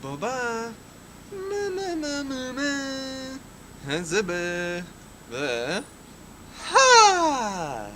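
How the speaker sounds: floppy jaw ya ya drill. Acted. Gibberish babble with voiceover translation.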